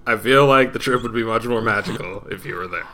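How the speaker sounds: laughing through it. Real, not acted. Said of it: "Say it!".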